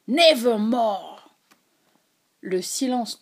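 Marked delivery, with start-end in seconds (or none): 0.1-1.2 slow cry, last syllable dragged and quivering; a hollow, drawn-out lament; trailing wail. A narrator's reading. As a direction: let the end tremble away. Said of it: "le cri dont l'ultime syllabe traînait comme une frémissante plainte".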